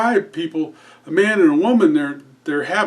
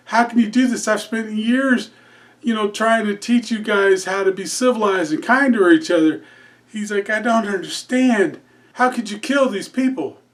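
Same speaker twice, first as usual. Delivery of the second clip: higher, pleading disbelief; shocked outrage; 5 semitones higher than usual. Acted. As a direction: beg him to explain, aghast. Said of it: "the padre is all flustered".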